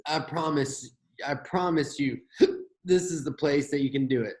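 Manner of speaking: talking through hiccups; hiccuping between words. Real, not acted. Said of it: "sorry, I've got the hiccups now too".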